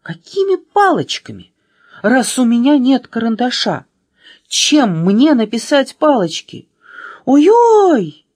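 panicked. A narrator's reading. Аля on the sagging bridge, panicked and wailing. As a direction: build to a high loud wail. Frightened girl on swaying bridge.

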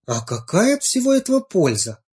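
high, inquisitive frog; probing frog voice. A narrator's reading. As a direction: press the question like a curious frog. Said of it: "допытывалась лягушка".

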